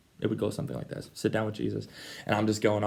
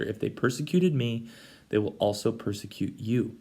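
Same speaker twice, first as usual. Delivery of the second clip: gentle Jesus. Retold or imitated. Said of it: "he goes".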